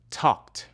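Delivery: "Talked" ending in a voiceless t. Shown as a demonstration. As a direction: say "Talked" as one syllable with a final t. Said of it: "We pronounce the E D ending".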